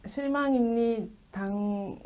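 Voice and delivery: slow, drawn-out mock disappointment; slow debate-line parody; 안철수's original voice. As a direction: lightly imitate a politician's natural voice, dragging it out. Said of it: "원래 목소리 한번 해봐요".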